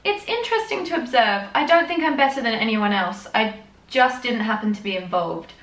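milk the drama of the tie feud; hammed-up reading of the elders' tie feud; mock dramatic reading. Reads the journal on.

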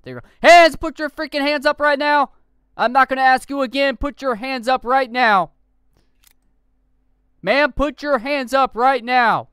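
from calm to loud, high commands; calm turning angry. Acted. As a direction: snap from calm to furious orders. Officer commanding suspect.

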